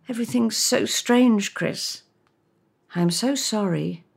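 a friend guiltily apologising on the phone; awkward apology. Acted. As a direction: apologise without knowing how. Reads Lydia's apology.

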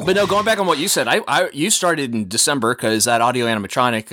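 talking while chewing ice; words round a mouthful of ice. Real, not acted. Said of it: "let me chew my ice".

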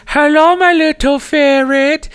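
very high, sweet sing-song hello; teasing sing-song greeting. Retold or imitated. Stacy greeting her friend on the phone, high sing-song. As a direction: coo it like a pet name. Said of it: "she's like".

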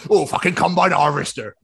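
lightly voiced Bristol yokel; amused little Bristol send-up; mock Bristol accent. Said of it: "when they wanna do a Bristol or Southern accent".

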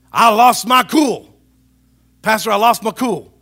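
acted lost temper. Church member confessing anger to pastor, hammed-up outburst. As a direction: blurt it out, still worked up. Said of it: "Your anger, you've lost it".

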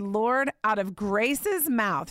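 slow, deliberate petition; slow prayer. Retold or imitated. Mother praying for a sign, slow and deliberate. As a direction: draw out each word.

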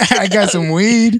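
slow, stretched "weed"; slowly offered, played for laughs; drawn-out offer. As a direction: repeat the offer, dragging it out. Repeats the offer after laughter.

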